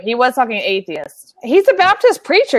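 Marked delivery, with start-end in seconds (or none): 1.4-2.6 raised voice. Real, not acted. Heated argument over Cruz remark.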